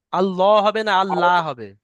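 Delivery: আল্লাহ first with heavy full lam, then light; heavy vs light Allah. Shown as a demonstration. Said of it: "পুর হবে না বারিক হবে".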